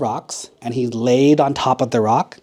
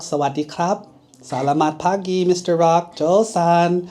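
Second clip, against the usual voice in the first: cheerful greetings; 4 semitones higher than usual. Acted. Monkey greets the rock in languages.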